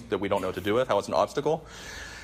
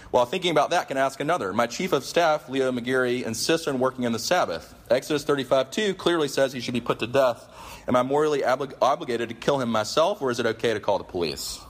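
higher, pointed sarcastic rant; 4 semitones higher than usual. Retold or imitated. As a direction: keep pressing, sarcastic. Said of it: "he keeps going".

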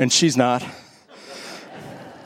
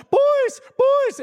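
teacher shouting. Retold or imitated. Teacher yelling at two boys chasing through class, high shrill shout. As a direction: shriek at the boys to stop like a frantic teacher. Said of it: "and she's going".

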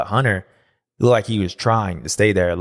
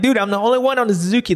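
fast, much higher mock pleading; mock exasperated self; 12 semitones higher, faster than usual. Racer retelling his rival, high mock exasperation. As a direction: squeak it out like a hurt buddy. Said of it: "I'm like".

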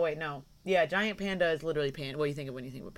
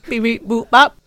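loud, higher robot beeps; toy robot voice; 6 semitones higher, 19 dB louder than usual. Pretend. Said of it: "I miss Robot Danny".

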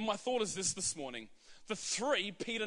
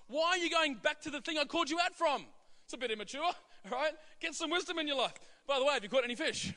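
higher, playful rebuke; Jesus chiding; 5 semitones higher, faster than usual. Retold or imitated. Jesus teases disciples who went fishing, higher and playful. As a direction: tease them about going back to fishing. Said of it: "That's what Jesus was saying".

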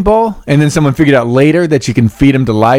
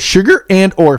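voice cracking; 3 semitones higher, slower than usual. Real, not acted. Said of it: "my voice just cracked like I was fucking fourteen".

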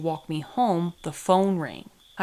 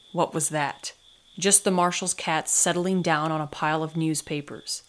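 plain reading voice

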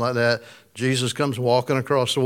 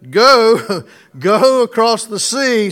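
emphatic command; 7 semitones higher, 5 dB louder, slower than usual. Acted.

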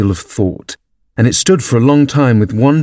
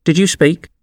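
frowning politeness; 7 semitones higher than usual. A narrator's reading. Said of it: "frowning, but very politely".

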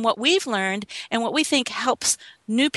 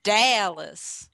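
Dallas with the weight on DAL, las light; stress on DAL. Shown as a demonstration. Texas host showing how to say Dallas, DAL-las. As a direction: punch the first syllable of Dallas. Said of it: "emphasis on that first syllable".

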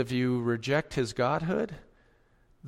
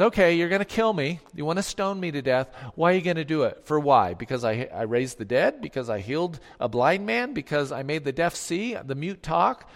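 sarcastic; 2 semitones higher than usual. Retold or imitated. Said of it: "I think with some sarcasm".

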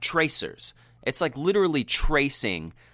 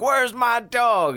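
high, loud, slow frantic call; calling out for the lost dog; worried farmer; 12 semitones higher, 5 dB louder, much slower than usual. Retold or imitated. Farmer searching for his dog, high and alarmed. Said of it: "he's like".

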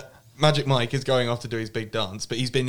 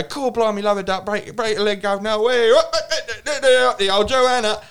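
stereotype cockney, pitched up and slow at the end; hammed-up London accent; 9 semitones higher, 4 dB louder, slower than usual. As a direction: overplay the Londoner for the American star. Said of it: "play up to that stereotype".

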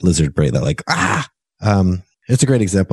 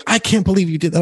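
mock exasperation; 10 semitones higher than usual. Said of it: "I started going".

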